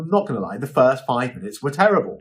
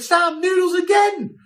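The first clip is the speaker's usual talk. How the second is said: much higher and slow, teasing disbelief; mock exasperation; 3 dB louder, slower than usual. Host teases assistant Sam about noodles, slow mock exasperation. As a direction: drag it out, playfully fed up. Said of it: "I'm like".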